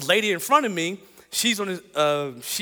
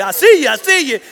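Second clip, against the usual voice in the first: teasing laugh; 6 semitones higher, 10 dB louder than usual. Retold or imitated. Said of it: "I said".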